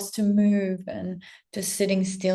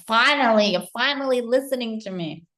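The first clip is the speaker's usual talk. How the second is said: relieved exclaim; 4 semitones higher, 7 dB louder than usual. Retold or imitated. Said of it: "You're like".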